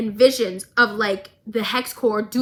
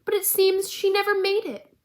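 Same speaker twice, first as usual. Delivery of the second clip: creepy villain voice; 3 semitones higher than usual. Retold or imitated. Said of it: "looks at Marcus's daughter and goes".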